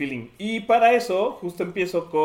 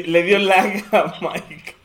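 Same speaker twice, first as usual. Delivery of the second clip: slow; 5 semitones higher, 8 dB louder, much slower than usual. Pretend. Jokes the voice lagged.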